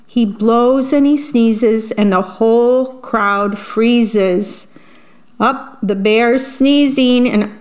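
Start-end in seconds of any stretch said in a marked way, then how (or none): 0.1-4.7 slow, rhythmic storybook read-aloud; reading to children. A narrator's reading. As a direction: savour each rhyme for little listeners. Reads picture book aloud.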